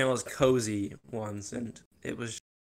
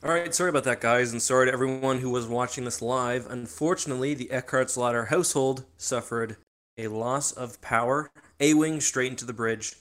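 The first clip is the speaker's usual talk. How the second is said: phone recording. Real, not acted. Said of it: "I'm recording this now from a mobile phone".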